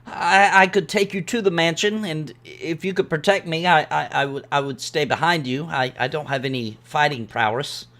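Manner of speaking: lightly voiced nervous villager, stammering; timid villager. Villager asking the adventurer for protection, timid and hesitant. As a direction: offer help hesitantly, with a touch of timidity.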